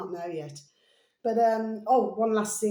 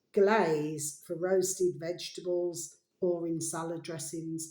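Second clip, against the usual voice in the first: ad read. Acted. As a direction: read the bottle's blurb like an advert. Reads the syrup label aloud.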